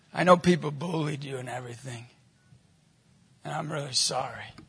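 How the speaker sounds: low, soft, sincere apology; gentle sympathy. Retold or imitated. Stranger consoling a bullied boy, gently sincere. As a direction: console a child quietly.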